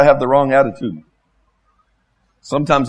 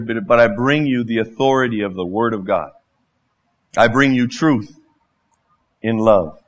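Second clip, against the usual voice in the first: humble servant; 5 semitones lower than usual. Shown as a demonstration. Modelling humble servant attitude.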